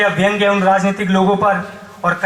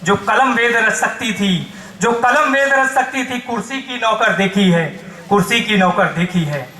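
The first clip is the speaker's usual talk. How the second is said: emphatic protest verse building to exhortation; poem recitation. Acted. Poet rouses the crowd against corrupt power, declaiming. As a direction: declaim it as a rallying call. Recites satire and call to rise.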